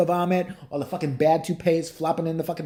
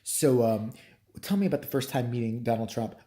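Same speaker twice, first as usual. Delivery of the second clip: lower-pitched interviewer question; lightly voiced interviewer; 6 semitones lower than usual. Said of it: "he asked her, he's like".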